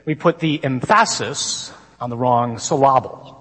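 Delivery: "emphasis" and "syllable" stressed on their second syllables; misplaced stress. Retold or imitated. Quoting a comedian to the congregation, "emphasis" and "syllable" deliberately mis-stressed. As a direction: put the beat wrongly on em-PHA-sis and syl-LA-ble. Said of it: "once somewhat famously put it".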